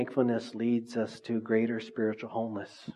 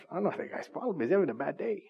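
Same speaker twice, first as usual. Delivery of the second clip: understanding shrug; 6 semitones higher, faster than usual. Retold or imitated. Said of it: "told Lily, I said".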